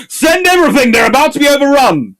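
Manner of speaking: urgent shout. Retold or imitated. British staffers call for help before being overrun, mock shouting. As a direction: yell it like the line is about to break. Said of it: "the British staffers were going".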